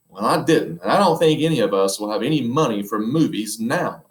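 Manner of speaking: Mrs Popper snapping a touch sharp; a mildly cross, worried wife; a little sharply. Acted. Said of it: "a little sharply".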